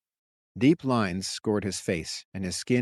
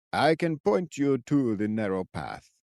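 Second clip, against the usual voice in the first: put-on old man voice; slower than usual.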